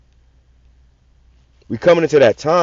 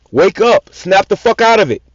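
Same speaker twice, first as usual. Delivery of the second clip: loud, higher shout to jolt them; wake-up shout; 5 semitones higher, 4 dB louder, slower than usual. Real, not acted. Preacher shouting at his listeners to wake up, loud and high.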